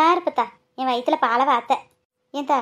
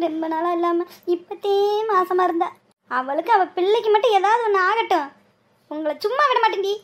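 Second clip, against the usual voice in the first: tearful wailing; 5 semitones higher than usual. Acted. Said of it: "எம்மா, அழுகாதம்மா".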